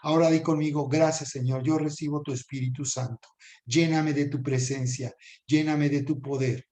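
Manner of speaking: earnest, even-toned blessing; prayer of blessing. Real, not acted. Prays over the viewers.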